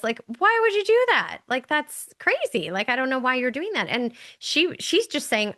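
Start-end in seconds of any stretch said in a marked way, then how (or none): 0.4-3.9 high, incredulous quoted question; curious husband. Retold or imitated. New husband questions the tradition, curious. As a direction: act out a baffled newcomer, starting high and easing down. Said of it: "he's curious".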